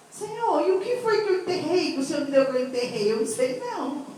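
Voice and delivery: voz inocente, mais aguda, de quem não entende; faça-se de desentendida, num tom agudo. Retold or imitated. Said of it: "né, tão inocente, falei assim". (inocente, como quem não sabe de nada)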